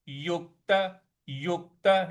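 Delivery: युक्त with weight on the क्त; stressed क. Shown as a demonstration. Teacher showing stress on युक्त. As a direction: push the क in युक्त. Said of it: "यहाँ पे क पे हमको बल लगाना है".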